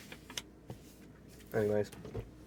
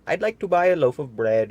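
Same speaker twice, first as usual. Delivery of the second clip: booming; 3 semitones higher, 6 dB louder than usual. Acted. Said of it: "he boomed".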